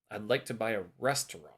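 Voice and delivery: "restaurant" stressed on its first syllable; stress on RES. Shown as a demonstration. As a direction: hit the start of "restaurant". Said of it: "tonic stress goes at the beginning".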